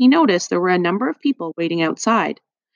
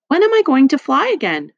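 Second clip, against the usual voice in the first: higher, louder eager question; bright and eager old lady; 7 semitones higher, 5 dB louder than usual. A narrator's reading. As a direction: ask it brightly with a lifted, keen voice. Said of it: "she asked brightly".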